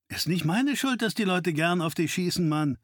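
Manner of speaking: a hint of a cocky partner; cheeky sidekick. Narrator voices Wayne.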